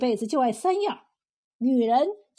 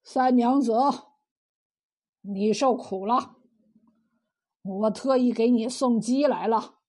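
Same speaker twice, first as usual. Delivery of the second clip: 色眯眯; 2 semitones lower than usual. Acted. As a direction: sweet-talk her with a touch of leer. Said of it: "色眯眯地对柳三娘说". (色眯眯地讨好)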